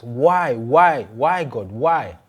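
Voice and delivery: repeated, swooping cries of protest; crying to God. Acted. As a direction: plead upward, loud at first then easing. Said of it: "crying to God".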